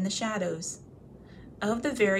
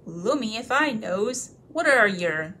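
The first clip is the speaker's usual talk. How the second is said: puzzled troll; 5 dB louder than usual. Acted.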